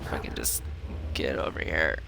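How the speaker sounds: sneaky whisper. Real, not acted. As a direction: creep in whispering. Sneaking closer.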